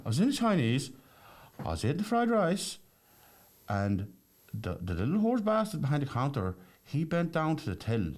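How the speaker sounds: high put-on voice of the traveller; traveller's voice. Traveller explaining the takeaway slap, high mock voice.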